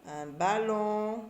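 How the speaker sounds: slow ballon, the on held; stretched ballon. Shown as a demonstration. Teacher repeating ballon slowly for pupils. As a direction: draw out the on in ballon. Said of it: "J'entends on dans ballon".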